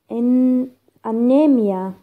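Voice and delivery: false start, then "anemia" with NE stressed; stress on second-last syllable. Shown as a demonstration. Teacher giving an example word, stress on NE in "anemia". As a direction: restart and lean on NE in "anemia". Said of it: "Second from the end".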